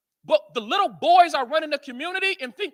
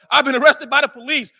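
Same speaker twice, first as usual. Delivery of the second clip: louder, laughing through the words; 7 dB louder than usual. Real, not acted. Admitting his arrests to the crowd, laughing. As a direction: chuckle at how often it happened. Repeats line, second time laughing.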